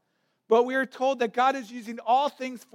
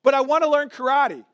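frustrated complaint; 4 semitones higher than usual. Retold or imitated. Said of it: "he's extremely frustrated".

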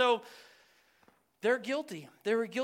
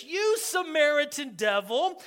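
acted accusation, raised in pitch; upset retort; 5 semitones higher, 4 dB louder than usual. Angry crowd retorting to Jesus, upset and accusing. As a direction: throw the charge at him indignantly. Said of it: "They're talking to Jesus like this".

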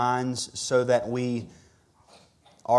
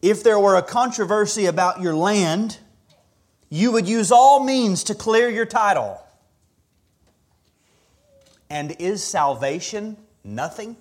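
quoting Thomas Watson; 6 semitones higher, 3 dB louder than usual. Retold or imitated. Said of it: "the words of Thomas Watson".

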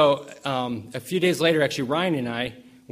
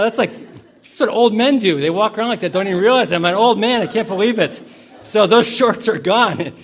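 louder, higher, half laughing; amused disbelief; 7 semitones higher, 9 dB louder than usual. Real, not acted. Pastor confessing to congregation he's an old man, laughing.

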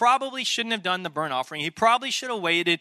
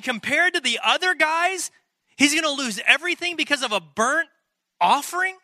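can't believe what he's reading; incredulous; 7 semitones higher than usual. Real, not acted. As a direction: pitch climbing to a high disbelieving squeak on offering. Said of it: "incredulous outburst".

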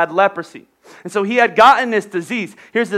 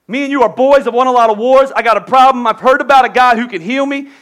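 louder, higher buddy-to-buddy appeal; retold plea to the king; 3 semitones higher, 5 dB louder than usual. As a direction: lean in and press the king for help. General pleads with his king.

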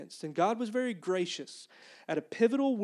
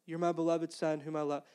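lightly voiced, unruffled repeat; silly God reply; 2 semitones lower, 3 dB quieter than usual. God answering the preacher's practical questions, mildly silly and unruffled. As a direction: answer evenly, ignoring the question. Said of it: "I'm saying this kind of like, you know, s-, in a silly way".

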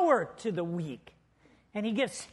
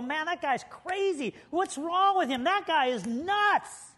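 higher-pitched baffled onlooker; acted disbelief; 6 semitones higher than usual. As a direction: react as if watching someone act crazy. Onlooker reacting to head-banger.

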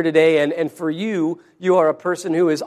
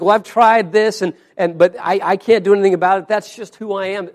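defeated; 5 dB louder than usual. Retold or imitated. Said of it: "in sort of a defeated".

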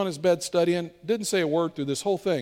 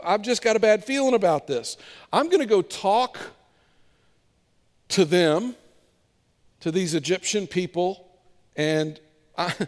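voicing Moses; 2 semitones higher than usual. Moses voiced pleading with God.

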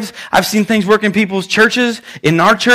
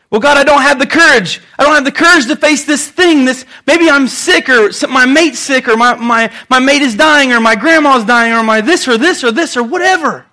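worried believer pleading with God; 4 semitones higher than usual. Acted. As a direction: fret aloud like a worried person praying. Voicing fearful believer praying.

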